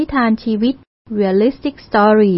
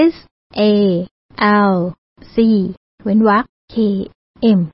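S, A, L, C, K, M, each letter set apart by a long pause; repeated spelling. Shown as a demonstration. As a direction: dictate S A L C, space, K M letter by letter. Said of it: "ทวนอีกครั้งนะคะ".

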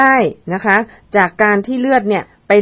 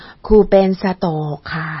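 put-on slow, low, slurred like a toddler; tongue-tied, drawn-out slur; slurred tongue-tied speech; 3 semitones lower than usual. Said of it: "เสียงอ้อแอลิ้นพันกัน".

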